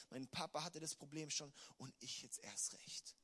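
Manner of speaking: put-on a scared people murmuring their old fear; fearful, hushed. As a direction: shrink back from the giant. Israel voiced, afraid of giants.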